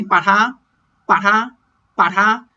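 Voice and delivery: 把它 with 它 losing its puff of aspiration; weakened ta. Shown as a demonstration. Teacher demonstrating weak pronouns, unaspirated ta in 把它. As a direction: soften the T of 它 in 把它. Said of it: "the ta here kind of loses its aspirated T sound".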